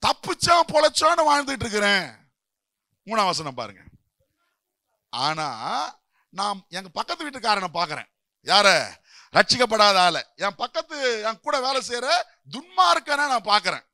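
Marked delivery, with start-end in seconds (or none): none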